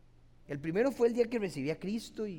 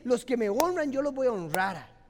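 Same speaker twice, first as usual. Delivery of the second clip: loud, higher and fervent divine promise; voicing God's promise; 4 semitones higher, 8 dB louder than usual. Preacher quoting God's promise to the faithful, loud and fervent. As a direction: proclaim it as God's own vow. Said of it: "dice Dios".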